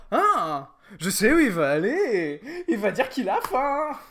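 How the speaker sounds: loud, laughing viewer voice. Pretend. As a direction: blurt it out through laughter. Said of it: "vous vous dites déjà".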